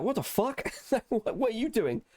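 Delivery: high-pitched, retold bewildered reaction; startled disbelief. Retelling her startled reaction at work.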